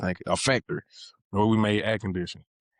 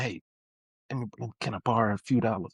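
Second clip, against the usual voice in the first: the same ask recast politely, quick and even; proper polite version; faster than usual. Shown as a demonstration. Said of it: "Saying it differently from how I would normally say it".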